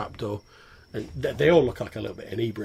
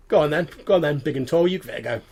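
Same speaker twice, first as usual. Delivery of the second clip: goblin voice; 5 semitones higher, 8 dB louder, faster than usual. Acted. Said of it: "And he's like".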